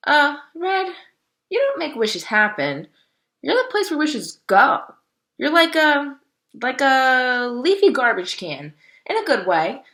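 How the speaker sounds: a bouncy crow teasing her tree friend; chirpy, brash bird friend; lively Bongo. A narrator's reading. Bongo voiced, excited and higher.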